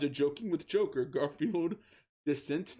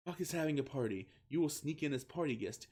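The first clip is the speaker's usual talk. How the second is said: quick words; 2 semitones higher than usual. Acted. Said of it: "with quick words".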